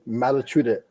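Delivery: mock Southern "Massachusetts", consonants softened to D; Southern accent imitation. Guest mimicking locals down here, Southern accent imitation. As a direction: say a Southern "Madda-chu-dit". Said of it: "down here, they're like".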